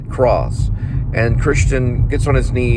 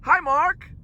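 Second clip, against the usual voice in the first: much higher mock Wiseau greeting; cheesy impersonated hello; Tommy Wiseau line. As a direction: greet Mark the way Wiseau does. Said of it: "That's when it came out".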